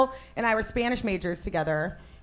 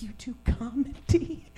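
imitating own surprise; 4 semitones higher, 10 dB quieter than usual. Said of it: "And I was like".

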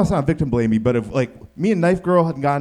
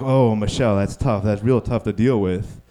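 sympathy; 4 semitones lower than usual. Retold or imitated. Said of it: "And externally, we're like".

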